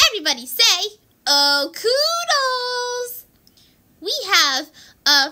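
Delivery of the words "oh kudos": drawn-out group cheer. Pretend. Leading a group cheer for photo.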